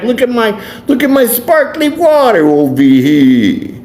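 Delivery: a lightly done smug New Yorker; mock New Yorker. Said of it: "and be like".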